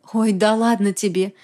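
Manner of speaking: plain reading voice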